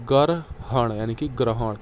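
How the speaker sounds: ग्रहण said slowly, syllable by syllable; ग्रहण pronounced slowly and clearly; careful spelling out. Shown as a demonstration. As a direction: draw out ग्रहण for the class. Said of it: "एक ऐसे लिखा जाता है".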